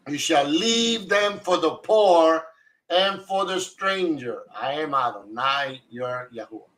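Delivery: measured, solemn reading of a passage; lightly formal Bible recitation; scripture reading. Acted. Scripture read aloud to group.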